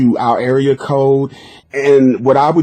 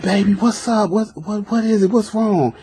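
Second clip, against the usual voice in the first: much higher, urgent pleading; eager caller; 7 semitones higher, 4 dB quieter than usual. Retold or imitated. Lovesick caller begging the girl to tell him, eager and much higher. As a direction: press her anxiously to spill it. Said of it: "they be like".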